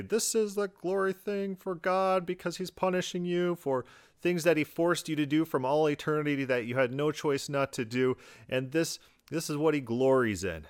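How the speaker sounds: high, mocking zealot voice; hammed-up mocking preacher. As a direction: sneer it like a smug hellfire preacher. Mocking Fred Phelps types.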